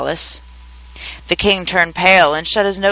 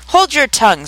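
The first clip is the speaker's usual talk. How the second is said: higher-pitched, mildly furious order; angry command; 7 semitones higher than usual. A narrator's reading. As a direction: order silence with rising temper. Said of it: "turning purple".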